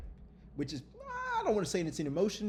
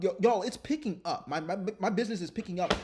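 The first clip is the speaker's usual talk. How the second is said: louder, hyped call-out to the viewers; excited announcement; 4 semitones higher, 4 dB louder than usual. Real, not acted. Telling viewers his business is picking up, excited. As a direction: break the news like a win.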